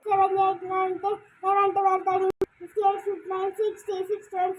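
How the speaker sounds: loud counting; calling out count. Real, not acted. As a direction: call the numbers out loud. Seeker counting aloud. (గట్టిగా లెక్కపెట్టడం)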